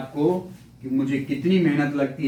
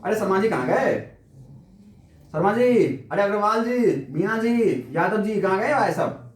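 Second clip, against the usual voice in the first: calling out names; 3 semitones higher than usual. Pretend. Teacher hunting for silent students, mock calling out. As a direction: call for students in mock search.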